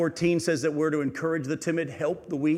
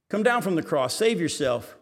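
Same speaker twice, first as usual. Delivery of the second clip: mocking taunt; 3 semitones higher, 4 dB louder than usual. Preacher voicing Satan's taunt.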